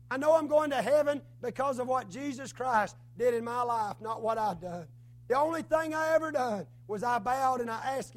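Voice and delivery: loud, insistent sermon rhythm; testifying preaching. Acted. Preacher testifying about heaven to his church, in fervent preaching. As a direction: testify with conviction, pressing each line.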